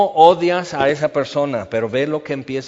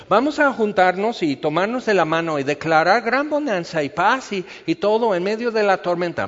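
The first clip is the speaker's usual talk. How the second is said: mock faith declaration; 5 semitones higher than usual. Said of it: "pudo haber dicho".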